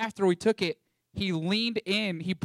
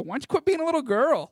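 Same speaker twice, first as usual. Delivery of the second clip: higher, louder mock taunt; sarcastic jab; 8 semitones higher, 5 dB louder than usual. Teasing a cold friend on the walk to breakfast, sarcastic jab. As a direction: needle him sarcastically with a grin. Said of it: "Like, being sarcastic".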